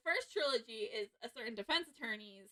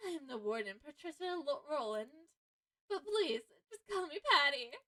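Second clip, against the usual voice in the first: sweet warden voice; 3 semitones higher, 4 dB louder than usual. Acted.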